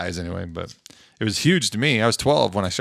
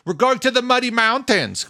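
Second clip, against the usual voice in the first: put-on high little kid voice; small child voice; 13 semitones higher than usual. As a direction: imitate a small child, pitched up. Imitating her three-year-old son.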